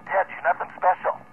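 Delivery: measured emphasis on "you're nothing special"; pause, then press home "Ted, you're nothing special"; emphatic restatement. Real, not acted. Radio operator repeating it to Ted for emphasis, measured. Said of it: "And for emphasis".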